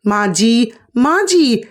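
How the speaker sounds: calling from another room, rising on the repeat; calling out loudly. Acted. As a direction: shout for mother-in-law from the storeroom. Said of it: "जोर से आवाज़ लगाई".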